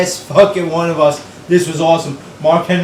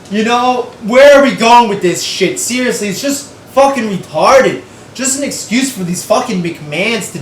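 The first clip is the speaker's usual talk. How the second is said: exasperated rant; 5 semitones higher than usual. Real, not acted. Angry rant at the storyline.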